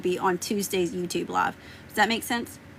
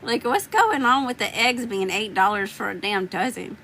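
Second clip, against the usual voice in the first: mock outrage. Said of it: "I'm sitting here thinking, like".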